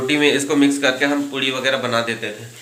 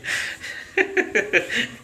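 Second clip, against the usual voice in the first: long high, breathy giggle; helpless laugh at your own joke; soft high-pitched laughter; 8 semitones higher, 5 dB quieter than usual. Real, not acted.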